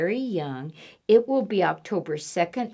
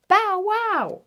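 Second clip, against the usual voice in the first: mock dog bark; 11 semitones higher, 4 dB louder than usual. Repeat, dog sound.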